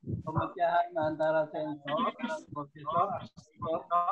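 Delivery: choppy audio dropping out; bad connection. Real, not acted. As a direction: voice breaking up on a bad line. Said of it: "suaranya putus-putus".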